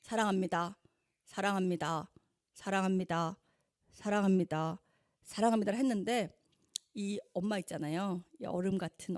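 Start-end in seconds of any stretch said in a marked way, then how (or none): 0.0-5.8 dry, flat delivery. Retold or imitated. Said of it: "되게 건조하게 꺼냈어요".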